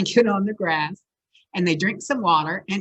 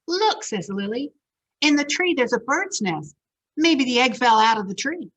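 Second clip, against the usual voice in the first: excited spotting; 5 semitones higher than usual. Acted. Lily voiced spotting nest.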